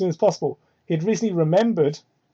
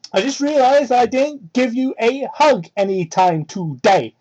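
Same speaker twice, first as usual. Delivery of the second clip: put-on slow sweet girl voice; 4 semitones higher than usual.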